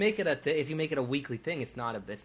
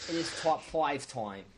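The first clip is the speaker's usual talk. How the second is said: put-on slow, struggling Cockney accent; struggling British accent; slower than usual. Podcast host announcing the list segment, struggling British accent. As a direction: draw it out in a rough British accent. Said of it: "with that British accent, like that really struggling".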